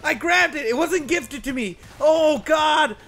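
mock wail. Hammed-up despair over a mistake.

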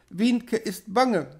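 put-on high, slow little child's voice; frightened small child. A narrator's reading. Child telling mother of fear, high and slow. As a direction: draw it out high, like a scared girl.

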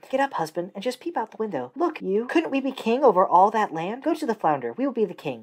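a pushy wife pressing her husband; wife's voice. Acted. Wife demands kingship.

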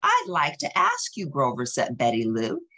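gentle read-aloud narration; storybook reading. A narrator's reading. Parent reading a Grover book to a child, storybook voice. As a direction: read it like a bedtime picture book.

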